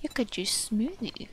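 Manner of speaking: soft whispered read-out; whispering an in-game option while reading. Real, not acted. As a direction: murmur it to yourself. Reading game text to self.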